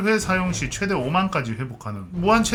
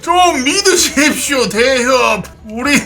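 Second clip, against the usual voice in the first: hammed-up martial arts shout; 7 semitones higher, 7 dB louder, slower than usual. Insisting to suspicious players, hamming wuxia.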